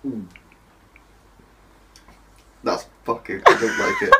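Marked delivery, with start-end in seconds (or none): 3.5-4.1 very high, loud squeal; disgusted squeal. Real, not acted. Tasting disgusting juice.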